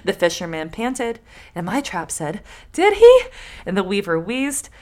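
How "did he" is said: high squeaky object voice. Acted. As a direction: pipe it up high. Trap voiced in folktale.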